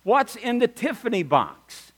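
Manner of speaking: calling out a question from afar; retold yell. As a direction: imitate hollering over a parking lot. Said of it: "he yelled down".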